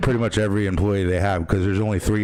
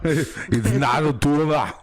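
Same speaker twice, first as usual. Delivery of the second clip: slow, higher, exaggerated quote; hammed-up catchphrase impression; 7 semitones higher, slower than usual. Host topping co-host's film quote, exaggerated impression. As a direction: stretch the line out in a big mock voice.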